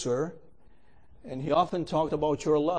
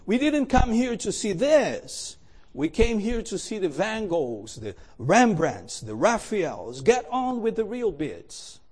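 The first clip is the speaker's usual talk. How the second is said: angry shout; 3 semitones higher than usual. Acted. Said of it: "another voice shouted angrily".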